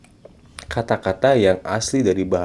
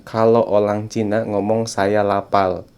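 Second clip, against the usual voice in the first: film-style Chinese accent, every R turned to L; mock Chinese accent; slower than usual. Shown as a demonstration.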